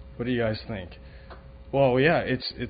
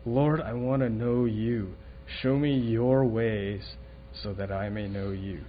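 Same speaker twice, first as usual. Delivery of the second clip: earnest prayer; 3 semitones lower, 3 dB quieter than usual. Retold or imitated. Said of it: "Moses when he asked the Lord".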